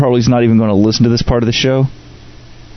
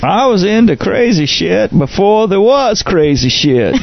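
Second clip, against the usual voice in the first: mock boast; 8 semitones higher than usual. Jokey boast in character.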